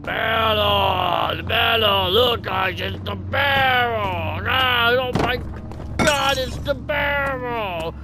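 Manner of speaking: PewDiePie impression, high and slow; high, slowed Swedish YouTuber voice; Swedish accent. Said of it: "I have a Swedish accent".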